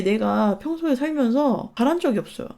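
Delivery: ordinary talk, nothing marked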